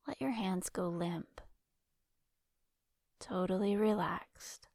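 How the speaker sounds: calm guided-imagery voice with long pauses between phrases; guided relaxation. Acted. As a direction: lead a listener into rest, leaving space to breathe. Leads guided relaxation exercise.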